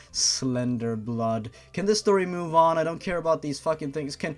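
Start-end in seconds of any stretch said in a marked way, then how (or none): 0.1-1.5 slow, lower, chuckling Slender blood; a slow mocking echo with a laugh; laughing mock repeat. Real, not acted. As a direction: savour the silly phrase through a laugh. Laughing repeat of silly phrase.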